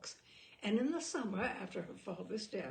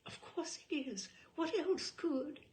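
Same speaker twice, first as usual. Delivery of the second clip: knowing gossip; 7 semitones higher than usual. A narrator's reading. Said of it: "This behind their hands".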